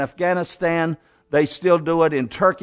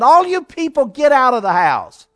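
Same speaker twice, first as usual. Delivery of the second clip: commanding order; 6 semitones higher, 6 dB louder than usual. Acted. Jesus clears out the mourners.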